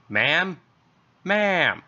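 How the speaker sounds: officer yelling after the screams; calling out in alarm. Acted. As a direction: call into the dead line.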